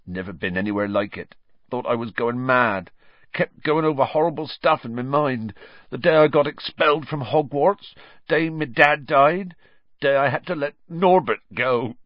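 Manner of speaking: a hint of big Hagrid, rising to a pained pitch; lightly voiced grieving Hagrid. Hagrid tells the children of Azkaban, mild grief. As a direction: let old sorrows well up.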